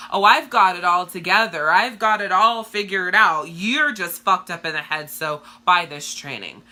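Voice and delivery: loud, self-satisfied sales pitch voice; mock the know-it-all coach; hammed-up perfect-guru boast; smug fake guru. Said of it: "so many people do who are coaches".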